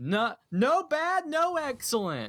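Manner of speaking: acted, very high, slow, drawn-out shrieking scream. Reading an online review title written in all caps: screaming an all-caps title. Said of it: "so I'm gonna scream".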